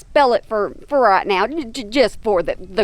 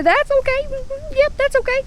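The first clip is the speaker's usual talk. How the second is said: soothing pet talk; 12 semitones higher than usual. Real, not acted. Soothing the animal she upset.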